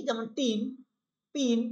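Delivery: টিন পিন with a short clipped i, no stretch; short i vowel. Shown as a demonstration. Teacher contrasts the short i with the long ee. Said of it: "কোনো টান দেইনি".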